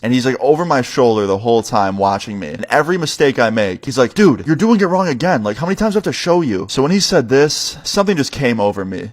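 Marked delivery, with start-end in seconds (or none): 4.1-6.7 higher-pitched mock scolding; exasperated boss. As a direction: imitate a boss fed up with mistakes. Boss scolds repeated mistakes.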